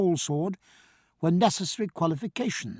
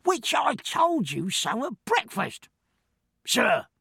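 higher, slow, coolly insolent servant; exactly dosed insolence; 7 semitones higher, slower than usual. Acted. Servant Killick reminds the doctor, slowly: measured insolence. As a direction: let the cheek show, measured and slow. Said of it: "with a very exactly dosed insolence".

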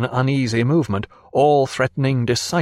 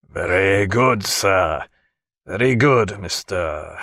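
low, curt and stiff; a lightly voiced huffy lieutenant; offended officer; 4 semitones lower, slower than usual. A narrator's reading. Lieutenant stiffly taking offence at the doctor, low and curt.

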